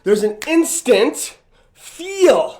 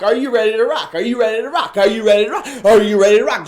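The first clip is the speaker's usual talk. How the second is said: rally call; much faster than usual. Real, not acted. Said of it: "Just say it with me right now".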